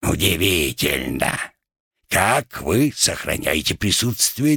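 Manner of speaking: a hint of a sinister hoarse gunner; creepy hoarse voice. Rat plays the gunner plotting with the captain, eerie and hoarse. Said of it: "заговорил жутким хриплым голосом".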